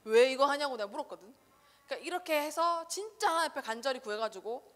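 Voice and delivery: ordinary talk, nothing marked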